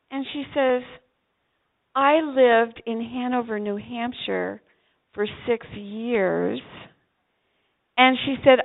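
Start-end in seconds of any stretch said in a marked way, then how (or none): 1.9-6.6 a gently slowed recollection; slow, wistful. Retold or imitated. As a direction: linger over each word fondly. Woman recalls Vermont life.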